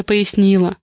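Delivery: usual speaking voice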